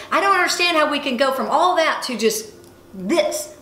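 retold fury, voiced with mild indignation; furious retelling. Speaker retelling her treadmill complaint to God, mildly furious. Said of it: "I'm just furious".

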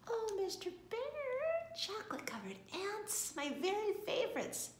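high-pitched, thrilled wife; delighted. A narrator's reading. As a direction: gush over a beloved gift.

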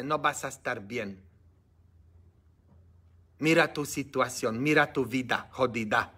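a hint of a low, soft tempting voice; lightly voiced devil whispering doubts; the devilish voice of doubt, lightly done and soft; devil's voice. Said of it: "La voz diabólica que te habla y te dice".

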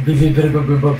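beeping robot sounds. Acted. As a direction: repeat it like a robot. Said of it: "Je suis un robot".

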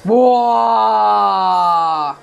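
excited shout. Real, not acted. Big battle moment.

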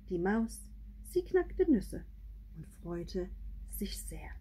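gentle read-aloud, pitch swinging between lines; storybook reading with hushed endings; story narration. A narrator's reading. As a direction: read a bilingual picture book, letting line endings fall soft. Reads picture book in two languages.

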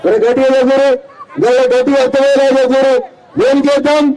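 projected rally voice, pausing for the crowd's answer; rousing rally questions. Real, not acted. (జనాన్ని ఉత్సాహపరిచే సభా ప్రశ్నలు)

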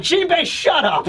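high, drawn-out snapping shout; Nami, shouting. Acted. Nami shouts over at Jinbei, angry shout. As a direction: shout someone down in exasperation. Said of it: "she shouts over at Jinbei".

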